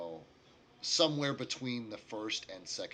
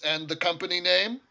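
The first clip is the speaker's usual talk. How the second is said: raised, louder question with a rising end; lightly voiced clerk; 8 semitones higher, 11 dB louder than usual. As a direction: ask for a name to fill in the form. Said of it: "looks over his glasses at you".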